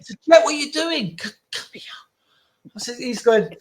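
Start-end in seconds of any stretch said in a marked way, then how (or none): 0.3-1.2 raised, higher voice calling across the room; retold call out. Calling Jet away from the wedding buffet, raised voice. 1.2-1.8 hushed whisper, beckoning; urgent whisper. Retold or imitated. Beckoning Jet back from the buffet, whispered.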